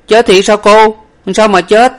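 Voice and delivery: high, loud, startled questions; hair-raising shock. A narrator's reading. Shocked servant questioning the young lady, aghast. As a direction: blurt it out aghast, pitched high. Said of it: "dựng tóc trán mà rằng".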